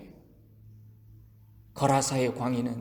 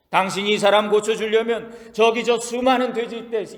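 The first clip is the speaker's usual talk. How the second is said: higher, mocking demon voice pleading its case; demon bargaining; 4 semitones higher than usual. Demons haggling with Jesus, a lightly voiced sly plea. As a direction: sneer at Jesus like a wheedling demon.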